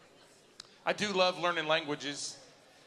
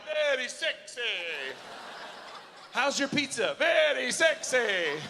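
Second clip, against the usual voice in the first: excited retelling; 6 semitones higher, slower than usual. Retold or imitated. Comedian to crowd, replaying his innocent replies, high and laughing. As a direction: belt out the punchline through laughter.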